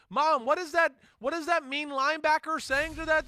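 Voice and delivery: put-on high, curious little kid asking mom; imitating a kid. Host imitating kid asking mom about trash talk, high child voice. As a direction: pitch way up like a small child questioning a parent. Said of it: "the kid doesn't have to go".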